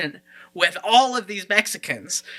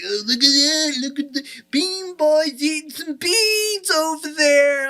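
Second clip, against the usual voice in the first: higher, slow, sneering put-on voice; mocking onlookers; 9 semitones higher than usual. Onlookers mocking the kids eating beans, slow sneering put-on voice. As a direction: jeer at the bean boys across the room.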